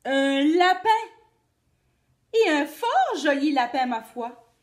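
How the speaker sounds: loud, delighted cry; excited shout. Acted. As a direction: exclaim with hungry glee. Wolf spots rabbit.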